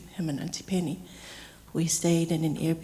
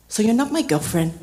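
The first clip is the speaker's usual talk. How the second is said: retold cheeky comeback, louder; cheeky humour; 3 semitones higher, 5 dB louder than usual. Uncle keeps teasing his niece, cheeky. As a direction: tease back, imitating an uncle's mock puzzlement. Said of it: "indicative of his cheeky humor".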